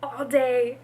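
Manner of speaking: high, whiny lament; about to cry. Real, not acted. Reader let down after waiting all day, high tearful whine. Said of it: "I'm actually about to cry".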